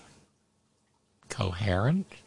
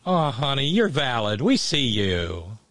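camp sympathy. Pretend.

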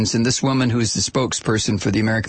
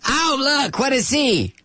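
high mock yokel voice; exaggerated, pitched-up hick impression; small-town hick; 11 semitones higher, slower than usual. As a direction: gawk like a startled country hick. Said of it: "those hicks that lived in the".

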